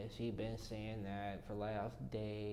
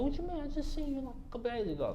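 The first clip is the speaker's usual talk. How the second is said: high, loud, shocked repeat; alarmed disbelief; 6 dB louder, faster than usual. Retold or imitated.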